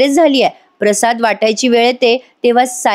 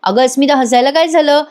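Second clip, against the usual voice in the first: a lightly voiced puzzled mother-in-law, pitched higher; 5 semitones higher than usual. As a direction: ask around the room, genuinely baffled. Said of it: "कल्पनाताई जरा गोंधळून जातात". (गोंधळलेल्या सासूचा हलका आवाज, थोडा उंच स्वर)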